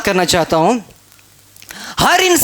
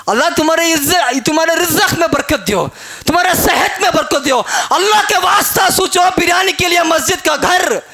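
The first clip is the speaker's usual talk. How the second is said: impassioned preaching; 4 semitones higher than usual. Acted. Preacher rebukes congregation.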